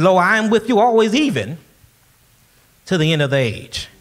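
forceful preacher quoting scripture; booming scripture quote; loud proclamation. Acted. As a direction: proclaim the promise loudly to the church. Preacher declaiming Jesus's promise.

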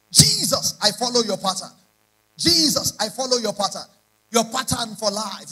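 loud, rising prayer cry, calling out Jesus; fervent prayer. Acted. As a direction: lead the church in a loud prayer. Leads congregation in prayer.

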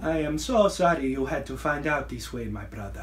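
unconvincing put-on Nigerian accent; solemn apology in a phony Nigerian accent; awful Nigerian accent. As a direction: fake a Nigerian accent, badly. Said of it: "That's an awful Nigerian accent".

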